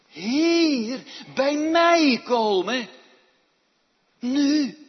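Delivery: loud, high, slowed summons; urgent call. Acted. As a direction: call someone near with urgency. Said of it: "hoe is dat nou als God ons roept".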